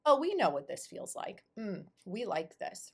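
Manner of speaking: light mock voice of a body in happy recognition; pleased body talking. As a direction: open high and loud on a delighted "oh". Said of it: "your body will go".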